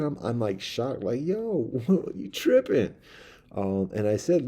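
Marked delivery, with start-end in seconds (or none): 1.2-2.9 high, slow, laughing yo you tripping; laughing disbelief. Retold or imitated. Man startled by a mouse, laughing in disbelief. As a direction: laugh it out in shock.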